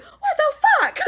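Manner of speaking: very high, loud laughing shriek; a laughing, disbelieving scream as he runs off; shrieking disbelief. Retold or imitated. Viv abandoned, disbelieving.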